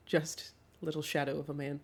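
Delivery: ordinary delivery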